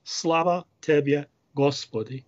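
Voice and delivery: spoken slowly, syllable by syllable. Shown as a demonstration. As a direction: lay out the words for the class. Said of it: "three words in Church Slavonic".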